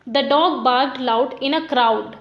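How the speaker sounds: slow example line ending on a stressed "crowd". Shown as a demonstration. Teacher demonstrating masculine rhyme, last word "crowd" stressed. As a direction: read it slowly, landing firmly on "crowd". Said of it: "को बोलने में जोर लग रहा है".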